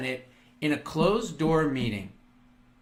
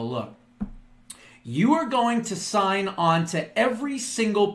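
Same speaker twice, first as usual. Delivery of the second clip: verbal bitch slap. Pretend. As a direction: lay into them like a new sheriff. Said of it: "a verbal bitch slap".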